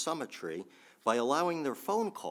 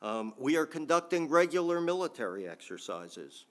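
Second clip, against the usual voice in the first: quoting Putin; 5 semitones higher than usual. Retold or imitated. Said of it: "I don't do a good Putin accent".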